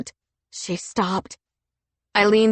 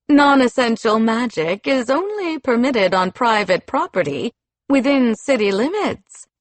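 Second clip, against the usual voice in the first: scolding official; 4 semitones higher than usual. Acted. Official scolds rival commander.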